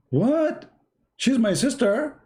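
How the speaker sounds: very high, stunned question; shocked disbelief. Retold or imitated. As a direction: squeak out the shock, slowly. Son shocked again.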